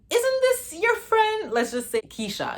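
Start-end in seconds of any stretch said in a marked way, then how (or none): 0.1-1.5 high, slow surprised mom voice. Retold or imitated. Mom spots her daughter's friend on the news, high slow surprise. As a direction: stretch it out like a shocked mom. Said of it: "And she's like".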